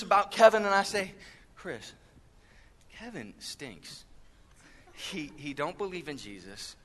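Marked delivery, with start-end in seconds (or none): 1.5-6.7 low, very soft confiding voice; hushed gossip. Pretend. Preacher gossips to Chris about Kevin, hushed.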